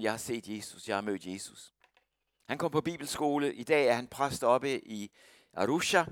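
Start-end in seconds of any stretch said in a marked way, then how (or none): 0.0-1.7 much softer, awed confession; awed hush. Retold or imitated. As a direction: tell them in hushed wonder. Converted man tells gang softly. (stille, ærefrygtig tilståelse)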